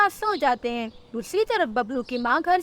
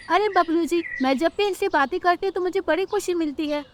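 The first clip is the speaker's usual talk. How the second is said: higher-pitched, mildly happy wife; happy bird wife; 5 semitones higher than usual. Acted. Rano tells Bablu about her eggs, mildly happy. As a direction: speak fondly in a higher voice.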